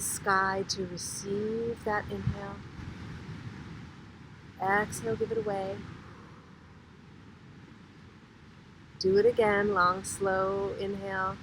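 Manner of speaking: unhurried breathwork guide with long pauses; drawn-out, measured meditation cues; guided breathing meditation. Real, not acted. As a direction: lead the group gently through each breath.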